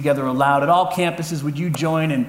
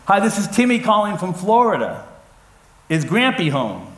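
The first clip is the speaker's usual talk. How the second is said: louder phone voice; 4 semitones higher than usual. Retold or imitated. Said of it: "you have to talk a little bit louder".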